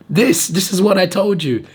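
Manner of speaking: high strained croak; squeezing words out of a sore throat; mock strained voice. Himself answering a coworker, strained high voice. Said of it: "I'm like".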